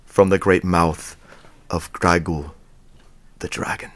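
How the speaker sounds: put-on low, measured old wizard voice; lightly voiced wise old wizard. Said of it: "now do your wizard voice just with your regular accent".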